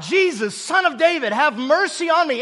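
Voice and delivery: acted cry for mercy, pitch climbing. Blind beggar calls to Jesus from the roadside, crying out. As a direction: call out to Jesus, voice rising. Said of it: "He begins to cry out".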